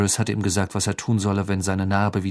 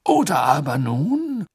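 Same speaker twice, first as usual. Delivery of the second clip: embarrassed; 6 semitones higher, 4 dB louder, slower than usual. Acted. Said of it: "Fudge klang verlegen".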